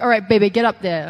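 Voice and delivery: loud, lightly voiced coach; Dusty Rhodes. Trainer sending a student up for a promo, loud light impression. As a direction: imitate a trainer ordering someone up. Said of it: "this is a Dusty impression".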